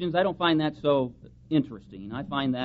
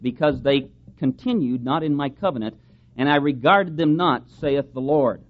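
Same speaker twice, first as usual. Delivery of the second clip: louder, solemn reading of the passage; scripture reading; 7 dB louder than usual. Acted. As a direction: proclaim the verses to the congregation. Preacher reads Hebrews eight aloud.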